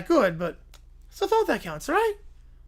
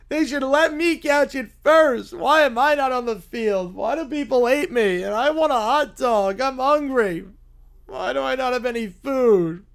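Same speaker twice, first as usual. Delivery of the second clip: put-on a touch of childish whining, slightly louder; whining kid; 2 semitones higher, 4 dB louder than usual. Fan whining after the Cubs lose. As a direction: complain like a spoiled child. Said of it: "just starts whining".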